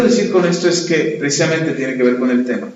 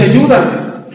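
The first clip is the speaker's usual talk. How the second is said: mildly higher, pleading voice; a hint of a begging drunk; 7 semitones higher, 3 dB louder than usual. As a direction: beg for help like the drunk man. Drunk man begging the pastor.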